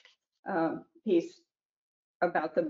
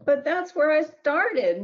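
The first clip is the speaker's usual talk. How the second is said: sighing; 7 semitones higher, 4 dB louder than usual. A narrator's reading. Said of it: "with a sigh".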